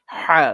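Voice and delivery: হা squeezed from the middle of the throat; throat-pressed ain. Shown as a demonstration. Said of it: "গলা চিপিয়ে". (গলা চিপিয়ে হা)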